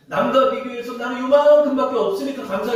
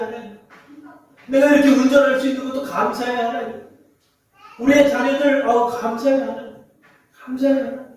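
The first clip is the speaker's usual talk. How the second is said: raised, earnest thanks to God; grateful prayer; 4 semitones higher than usual. Pretend. Pastor voicing the congregation's thankful prayer, high and earnest. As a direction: pray thanks with open delight.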